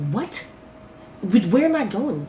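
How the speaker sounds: hushed, startled reaction; stunned disbelief. Retold or imitated. Retelling reaction to transfer news.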